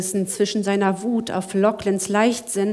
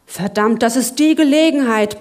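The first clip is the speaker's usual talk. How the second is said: protesting; 6 dB louder than usual. Acted. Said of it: "protestierte Lachlan".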